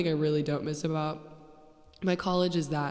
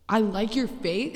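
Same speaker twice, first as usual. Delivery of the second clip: slow, higher mocking echo; mocking disbelief; 5 semitones higher, slower than usual. Podcaster mocking a lazy pickup line, slow incredulous echo. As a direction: throw it back slowly, rising in disbelief.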